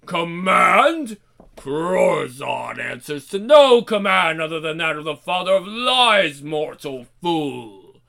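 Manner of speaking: scornful demon lord; gruff demon. Acted. Demon Corzon speaks.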